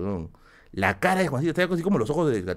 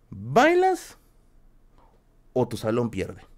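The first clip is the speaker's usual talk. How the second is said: mimicking the teacher's dare in a squeaky voice; slower than usual. Repeating the teacher's dare to friends, squeaky mocking echo.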